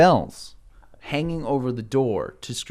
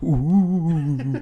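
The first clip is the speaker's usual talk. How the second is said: ghostly ooh. Acted. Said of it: "you hear someone go".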